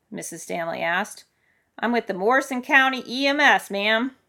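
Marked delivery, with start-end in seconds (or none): 1.8-4.2 raised, firm official voice; loud, higher emergency-worker voice; official rescuer. Acted. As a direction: announce yourself over the storm. Booming rescue worker answers.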